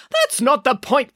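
high, slow indignant protest. A narrator's reading. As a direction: object with each word pressed. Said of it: "protested the doctor".

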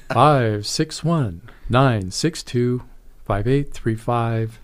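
slowly, over enunciating each digit; slow and clear. Shown as a demonstration. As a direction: spell out every number slowly. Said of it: "One more time, slowly".

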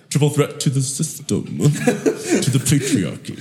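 laughing, high and drawn out; laughing at her joke about the triple threat. Real, not acted.

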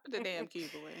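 low, soft mock order; quiet punchline repeat. Repeating the cube joke after laughter, low and quiet.

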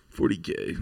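whispered gang tag. Acted. Repeating the gang name in a mock whisper. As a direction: breathe it out unvoiced. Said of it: "quotes the gang tag".

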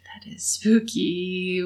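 slow eerie whisper. Pretend. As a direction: breathe it out spooked. Mock spooked reply.

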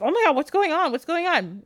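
high-pitched mock panic; freaking out. Girl when all the lights go out, mock freak-out. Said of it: "Vasilia's freaking out".

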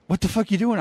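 high-pitched incredulous demand; mock-outraged challenge to a tag partner; retold indignation. Retold quarrel in the ring.

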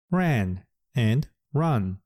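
slow "ran and run", vowels clearly apart; 「ran」と「run」の発音の違いをゆっくり示す; contrast ran and run. Shown as a demonstration. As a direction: stretch "ran" open and "run" short. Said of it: "発音の違いが皆さんわかりますか".

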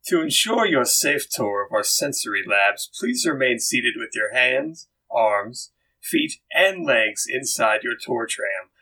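lightly voiced, measured ride safety spiel; safety announcement. Recorded voice instructing riders boarding the tour, measured announcement. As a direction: read it out slowly as a ride announcer. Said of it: "and then you hear this voice".

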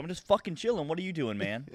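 high-pitched irritated comeback; heated, defiant retort; angry. Retold or imitated. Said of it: "I'm just, like, angry as hell".

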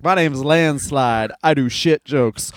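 slow, lightly voiced hack comic introducing himself; deadpan comic intro. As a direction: draw it out like a bad open-mic opener. Quoting a comic's stage intro.

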